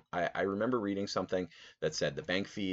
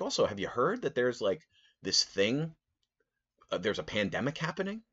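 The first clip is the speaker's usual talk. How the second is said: sarcastic; 6 semitones higher than usual. Retold or imitated. Sarcastic aside to guy.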